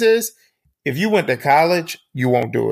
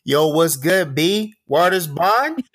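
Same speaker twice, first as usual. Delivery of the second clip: higher, hammed-up New York accent; New York impression; 3 semitones higher, slower than usual. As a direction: swagger through a mock New York greeting. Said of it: "y'all come across campus like".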